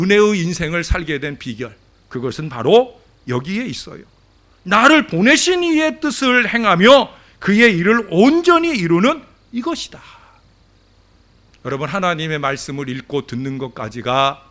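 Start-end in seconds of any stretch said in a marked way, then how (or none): 4.6-10.0 high, loud preaching recitation; raised pulpit voice, key words leaned on; scripture proclamation. Real, not acted. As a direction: declare the verse emphatically to the congregation. Repeats scripture at full force.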